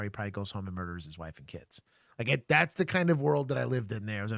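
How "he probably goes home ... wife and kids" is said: hushed grim whisper. Real, not acted. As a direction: drop to a whisper for the dark part. Grim aside about the stakes.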